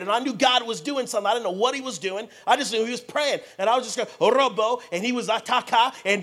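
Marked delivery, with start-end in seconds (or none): 4.2-4.8 loud burst of tongues; strong tongues prayer. Retold or imitated. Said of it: "but it was strong". 5.3-5.9 loud burst of tongues; strong tongues prayer. Retold or imitated. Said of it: "but it was strong".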